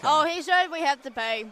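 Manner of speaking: talking around a hard candy; candy in the cheek while talking; sucking a hard candy. Real, not acted. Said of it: "you got candy in your mouth".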